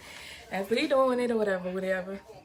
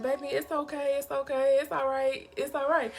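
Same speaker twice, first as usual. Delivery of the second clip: soothing; 3 semitones higher, 8 dB quieter than usual. Retold or imitated. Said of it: "he rubbing me on my back like".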